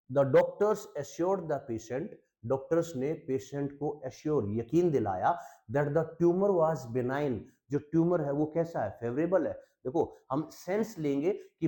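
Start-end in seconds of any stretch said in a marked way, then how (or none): 0.1-2.1 slow dictation. Shown as a demonstration. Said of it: "teacher dictates example sentence". 5.7-7.4 slow dictation. Shown as a demonstration. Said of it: "teacher dictates example sentence".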